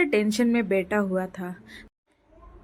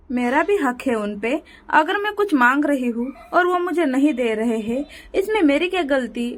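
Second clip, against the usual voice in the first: protesting wife; 4 semitones higher than usual. Acted. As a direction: argue your right.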